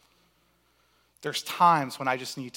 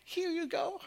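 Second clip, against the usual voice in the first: put-on much higher, much softer sweet little kid voice; puppy dog eyes; 13 dB quieter than usual. Grounded kid handing mom a card, sugary tiny voice. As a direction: coo it like a guilty child with a card. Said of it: "with puppy dog eyes".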